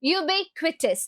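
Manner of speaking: ubiquitous said slowly as you-BIK-wi-tus; slow model of ubiquitous; careful ubiquitous. Shown as a demonstration. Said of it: "അവിടെ pronunciation നോക്കണം".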